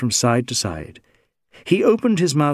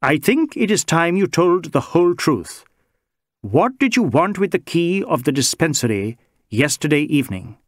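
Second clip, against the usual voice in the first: sharply; 4 semitones higher than usual. Acted. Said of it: "said Inspector Goethe sharply".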